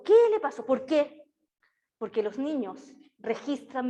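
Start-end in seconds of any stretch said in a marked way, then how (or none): 0.0-1.2 put-on high-pitched baby talk. Shown as a demonstration. Mother to her baby, demonstrating the high tone. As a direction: pitch jumps up high and louder on qué. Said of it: "Uso de un tono agudo".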